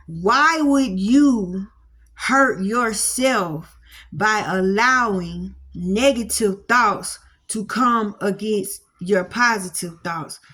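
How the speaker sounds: slow, weighted rhetorical question; slow emphasis. Acted. Preacher slowly pressing listeners about hurting themselves, deliberate. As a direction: lean on every word slowly.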